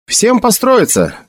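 high, drawn-out military order; shouted command. A narrator's reading. Officer orders everyone to form up, shouting. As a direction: call the order to all the men.

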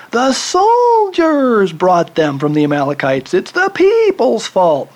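high, whiny, blame-shifting king; Saul's excuse. Acted. Preacher voicing Saul blaming his soldiers, high and whiny. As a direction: plead like a king passing the blame. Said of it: "And here's Saul".

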